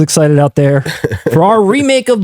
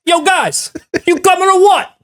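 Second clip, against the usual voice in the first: high mock voice of the cop; a hammed-up goofy call to the guys; lightly mimicked, much higher; Forrest Whitaker; 11 semitones higher than usual. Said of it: "He's like".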